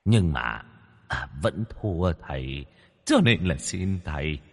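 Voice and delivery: lightly voiced cocky spirit, then wheedling; a hint of a bragging demon begging; boastful ghost. A narrator's reading. Ghost brags then begs the master, lightly voiced.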